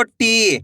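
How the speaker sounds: टी with a long, held ee; long ī demo. Shown as a demonstration. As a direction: stretch the vowel of टी for learners. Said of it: "बड़ी ई की मात्रा का उच्चारण". (टी में लंबी ई)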